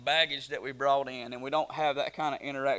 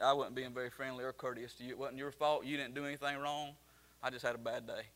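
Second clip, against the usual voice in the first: softer, lower, understated apology; retold apology; 3 semitones lower, 7 dB quieter than usual. Apologizing to brother's preacher, soft and contrite. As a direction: bring the voice down to make amends.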